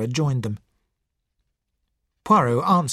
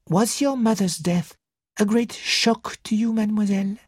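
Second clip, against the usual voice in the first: gently probing, in a raised character voice; gentle question; 8 semitones higher than usual. A narrator's reading. Poirot asks girl about mother's death, gently. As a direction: ask with careful sympathy. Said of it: "Poirot asked gently".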